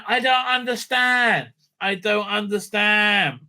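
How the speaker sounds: high, slow, drawn-out exasperation; exasperated bafflement. Real, not acted. Host baffled by the show's casting, exasperated.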